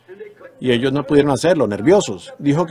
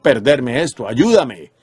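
prayer; slower than usual. Acted. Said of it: "voy allá con este propósito diciendo".

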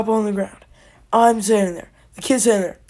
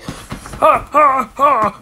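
sharp, high gasps of shock; hammed-up startled panting; mock gasps; 4 semitones higher, 5 dB louder, much slower than usual. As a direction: gasp as if just smacked. Acts out reaction to being smacked.

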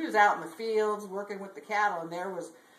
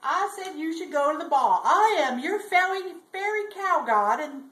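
higher, emphatic talking-cow voice; fairy cow; 5 semitones higher, 4 dB louder than usual. Acted. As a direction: proclaim it as a magical cow introducing herself. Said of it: "and the cow says".

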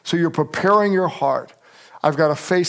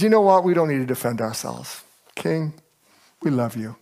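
calm and gentle; 4 semitones lower than usual. Acted. Voicing the three answering king.

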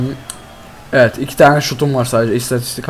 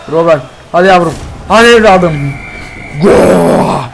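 cheering; 3 semitones higher, 5 dB louder, slower than usual. Real, not acted. Cheering the shot on.

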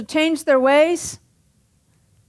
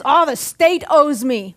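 mock entitled; slower than usual. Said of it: "a person that says".

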